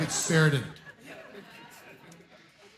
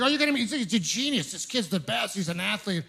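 mock gushing parent; 3 semitones higher, 5 dB quieter than usual. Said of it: "they're so excited".

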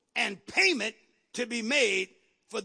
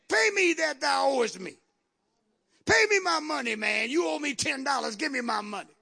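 acted angry demand; 2 semitones higher, faster than usual. Creditor demands money, seizing debtor.

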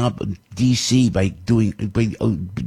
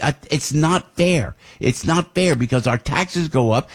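ranting; 5 semitones higher than usual. Real, not acted. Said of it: "Forgive me for ranting".

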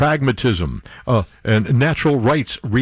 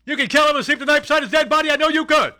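drill sergeant; 12 semitones higher than usual. Acted. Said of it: "sergeant role continues".

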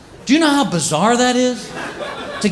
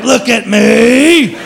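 indignant cat voice; 5 semitones higher than usual. Retold or imitated. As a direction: play the wounded cat, dragging it out. Neutered cat complaining.

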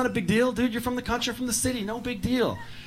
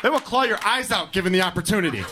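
worked-up rant; 4 semitones higher than usual. Retold or imitated. Ranting reply to heckler.

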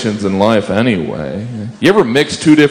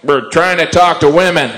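brain surgeon; 7 semitones higher than usual. Retold or imitated. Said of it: "What do brain surgeons say".

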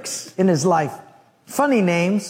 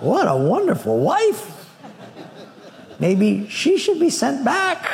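laughing sarcasm; 5 semitones higher than usual. Acted. Sarcastic aside about wife.

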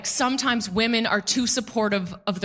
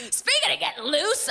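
giggling; 7 semitones higher than usual. Real, not acted. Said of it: "repeats higher".

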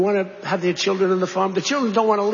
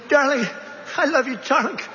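high mock scream of a cheering mother; mother's scream; 7 semitones higher than usual. Mother in the stands cheering her daughter, high mock yell. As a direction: pitch it up like a mother yelling from the stands. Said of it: "the mother's screaming".

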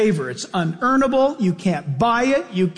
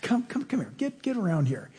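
much softer, tender fatherly call; soft affectionate coaxing to come close; fatherly tenderness; 10 dB quieter than usual. Retold or imitated. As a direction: gather the children in gently, like a loving father. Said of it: "he just melts with this fatherly heart".

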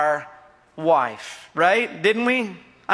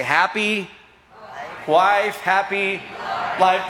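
quoting the saying; slower than usual. Real, not acted. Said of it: "What do they say?".

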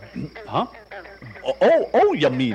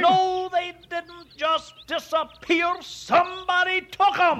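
indignant; 5 semitones higher than usual. Acted. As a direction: stretch out the denial, pitch up high. Worked-up farmer insists on theft.

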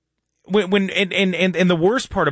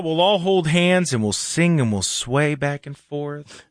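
lightly mocking kumbaya sincerity; mock-dreamy; 4 semitones lower than usual. Mocking kumbaya unity crowd.

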